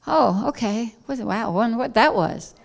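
casual, understated mock reaction; mock calm. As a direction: act unbothered, mildly curious. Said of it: "he just calmly like".

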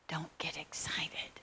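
slow hushed whisper at the door; slow secret whisper. Retold or imitated. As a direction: breathe it, no voice.

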